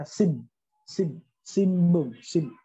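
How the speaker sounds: "sim" closed on a held m, "sinbung" as simbung; like double m. Shown as a demonstration. Teacher isolates the syllable, "sim" with held m. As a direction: slowly hold the lips shut on "sim". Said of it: "kayak mirip double M ya".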